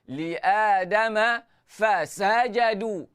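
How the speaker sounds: "fasajadu" with a push on "sa"; measured reading, pressing the A of "Adama" and "sa" of "fasajadu"; gentle pressure stress. Shown as a demonstration. Teacher reciting for students, stressed "sa" in "fasajadu". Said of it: "gentle pressure pada sin".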